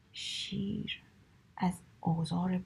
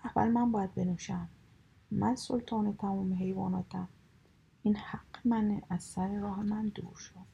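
greedy growl; 3 dB louder than usual. Acted. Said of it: "حریصانه غرید".

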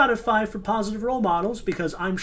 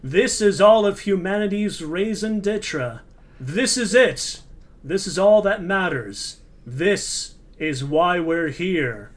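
slow, grand trailer announcer; 4 dB louder, slower than usual. Pretend. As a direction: build it like an epic trailer. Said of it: "trailer voice going".

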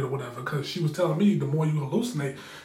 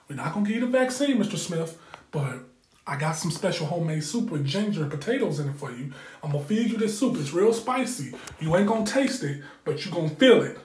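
put-on Jamaican accent; 2 semitones higher than usual. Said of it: "had a real good accent".

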